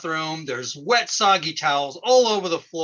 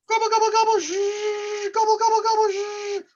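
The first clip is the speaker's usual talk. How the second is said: high, rapid gobbles into a sustained buzz; gobble, then whir like a vacuum; comic turkey-appliance impression. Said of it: "my impression of a turkey vacuum".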